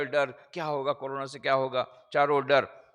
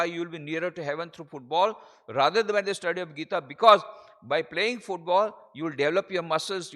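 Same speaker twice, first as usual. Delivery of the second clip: slow, emphatic declaimed quotation; deliberate oratorical English; preaching; 4 dB louder, much slower than usual. Acted. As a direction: drive each phrase home slowly.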